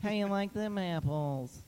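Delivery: slow Boston taunt; drawn-out Good Will Hunting line; Boston accent. Retold or imitated. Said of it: "how quick he said them apples".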